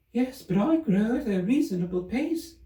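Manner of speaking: high squeaky little creature voice; a small cross rodent complaining; peevish Dormouse. Acted.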